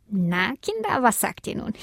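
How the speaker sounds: leicht höhere Stimme eines spöttischen Strauchs; 1 Brombeerstrauch. A narrator's reading. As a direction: ein neckender Busch, der die Kinder auslacht. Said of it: "lachte der Brombeerstrauch". (spöttische Strauchstimme)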